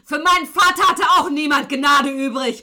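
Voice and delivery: high, loud, raging shout; furious outburst. Acted. Killer rages at his victim over his lost father. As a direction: explode with rage and grief.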